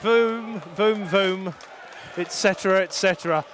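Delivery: hammy mock French exclaim; French accent. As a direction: play a cartoon Frenchman. Mock French exclamation after goal.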